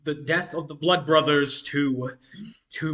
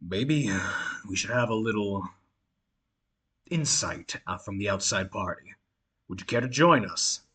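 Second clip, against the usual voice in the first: calm; 5 semitones lower than usual. Acted. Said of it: "in his calm demeanor".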